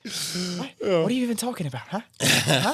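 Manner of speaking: over-the-top Boston accent in mock offense. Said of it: "Stupid accent".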